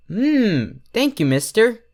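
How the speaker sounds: high, pleased little voice; munch and thank him sweetly; happy filly. Acted. Derpy thanking the stranger for muffins, high and pleased.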